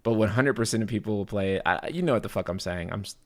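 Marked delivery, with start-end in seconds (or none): 1.7-3.2 tired stammer, words catching; stumbling over words; stuttering. Real, not acted. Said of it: "stuttering all over my words".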